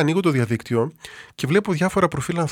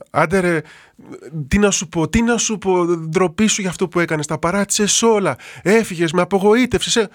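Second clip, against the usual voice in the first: higher, louder reproach, retold; mock angry scolding; 4 semitones higher, 3 dB louder than usual. Priest imitating a stranger scolding him on Ermou, higher and louder.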